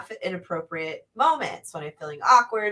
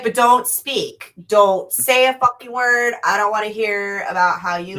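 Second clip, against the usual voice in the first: stern warning; 2 semitones higher, 6 dB louder than usual. Retold or imitated. Mother warning her son before he goes out, stern and loud. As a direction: lay down the law to the son. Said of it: "I was like".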